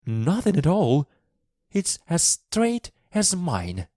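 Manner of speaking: high, emphatic verdict; Mary, harsh and childish. A narrator's reading. Girl reports on the boy's back, harsh and childish. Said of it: "those harsh, childish words".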